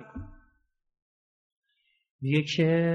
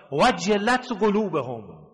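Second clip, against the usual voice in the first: Quranic recitation; 2 semitones higher, slower than usual. Acted. Quran verse recited in sermon.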